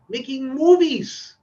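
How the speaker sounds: ordinary talk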